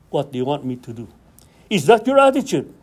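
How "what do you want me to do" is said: low, quick, soft request; soldier awaiting orders. Retold or imitated. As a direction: ask softly and humbly for your orders. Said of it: "He is assigned to do".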